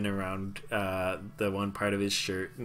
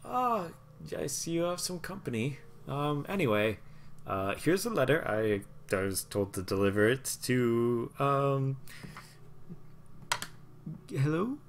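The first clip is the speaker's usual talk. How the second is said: high, eager little messenger babbling; a nervous tiny courier fumbling his delivery; halfling courier voice; 5 semitones higher than usual. Acted. Halfling courier chattering to the party, high and flustered.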